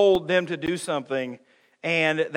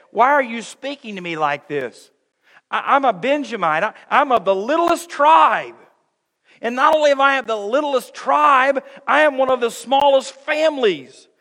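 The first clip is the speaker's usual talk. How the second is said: humble Saul; 6 semitones higher, 7 dB louder than usual. Retold or imitated. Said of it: "Saul responded in humility".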